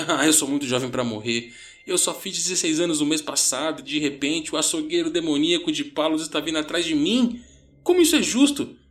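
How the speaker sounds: high, agitated panicked rant; frenzied. A narrator's reading. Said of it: "Ele estava entrando em frenesi".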